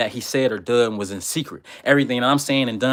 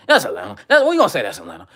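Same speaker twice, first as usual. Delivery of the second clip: laughing aside; 3 semitones lower, faster than usual. Real, not acted. Joking about Stone Mountain.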